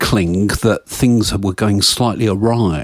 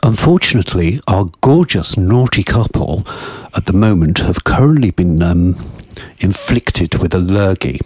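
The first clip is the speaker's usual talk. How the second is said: podium speech. Pretend. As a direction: announce it like a public notice. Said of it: "This is a public service announcement".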